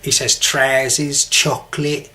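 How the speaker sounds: "trousers" with a long flat Cockney vowel, "chocolate" clipped to "choclit"; Cockney pronunciation. Shown as a demonstration. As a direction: say "trousers" and "chocolate" like a London dad. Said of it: "So my dad says".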